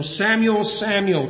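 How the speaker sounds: both "Samuel"s lifted, the second falling away; emphatic repetition. Retold or imitated. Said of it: "twice for emphasis".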